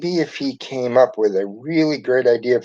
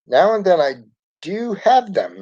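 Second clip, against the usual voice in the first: laughing; 7 semitones higher than usual. A narrator's reading. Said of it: "Miss Frizzle laughed".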